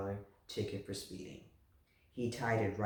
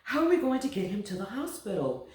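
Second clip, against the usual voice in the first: higher, louder frantic mother; panicked mother; 9 semitones higher, 5 dB louder than usual. A narrator's reading. Mother panicking about getting to the hospital. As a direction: fret aloud as the mother.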